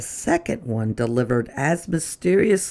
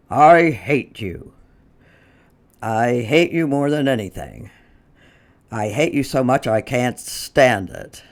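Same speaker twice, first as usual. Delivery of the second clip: mild menacing note read. Acted. Mister Prim reading the hateful note aloud. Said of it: "Mister Prim read to him".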